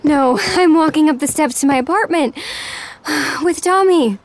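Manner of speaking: winded from climbing stairs; out of breath. Acted. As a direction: talk while climbing stairs. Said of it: "Why are you out of breath?".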